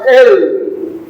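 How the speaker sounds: "él" hit loud and held; stress on él. Shown as a demonstration. Preacher pointing out the pronoun to the congregation, stressed "él". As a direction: punch out "él" as one weighty word. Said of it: "con acento en la E".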